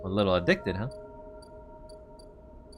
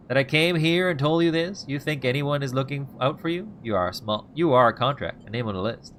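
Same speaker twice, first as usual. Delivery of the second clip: mild anger; 2 semitones higher, 4 dB louder than usual. Acted. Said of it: "the anger rising in him now".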